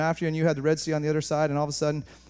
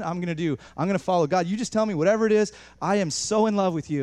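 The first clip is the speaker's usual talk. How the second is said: higher, impassioned address to God; fervent devotion; 4 semitones higher than usual. Acted. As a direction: pour out wholehearted praise and commitment. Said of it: "you know, I would say".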